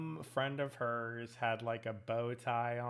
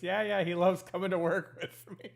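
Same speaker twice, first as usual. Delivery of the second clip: high-pitched mock Australian, laughing; Australian accent; 8 semitones higher, 4 dB louder than usual. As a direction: play the cheerful Australian driver, breaking into a laugh. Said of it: "in his Australian accent".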